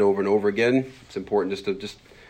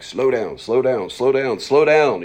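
repeated command climbing higher and louder; insistent self-reminder; 5 semitones higher, 8 dB louder, slower than usual. Retold or imitated. Preacher's pulpit notes to himself, mounting insistence. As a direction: drum it into yourself, building each time. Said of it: "sticky notes ... be like".

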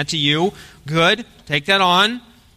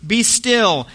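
a higher, firm rebuke to the storm; commanding Jesus; 5 semitones higher, much slower than usual. Retold or imitated. Jesus rebuking the wind and the sea, commanding. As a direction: command the sea to calm, with authority. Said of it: "rebuked the wind and said to the sea".

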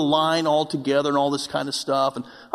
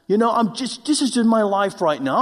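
pouting complaint; 2 semitones higher than usual. Retold or imitated. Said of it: "I'm just launching off my pout".

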